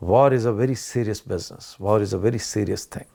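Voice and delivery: very slow, low and serious; grave. Real, not acted. Commentator turning from jokes to war, gravely serious. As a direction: weigh each word as a sober warning. Turns from jokes to solemn warning.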